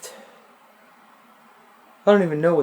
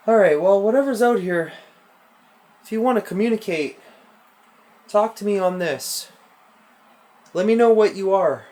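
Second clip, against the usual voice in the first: higher, louder summoning voice; calling out to a spirit; 4 semitones higher, 3 dB louder than usual. Real, not acted. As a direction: speak up to the unseen presence. Addressing the spirit directly.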